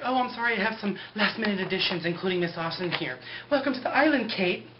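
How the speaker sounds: high, sugary fake welcome; overly nice host greeting a newcomer; sweet Juliet voice.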